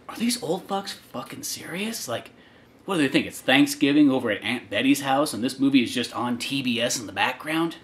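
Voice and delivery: hushed, slowed theater whisper. Retold or imitated. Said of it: "just whispering".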